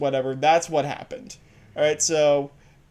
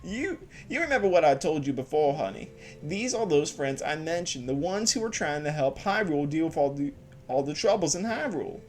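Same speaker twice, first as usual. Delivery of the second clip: put-on southern accent. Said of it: "a southern accent with a female voice".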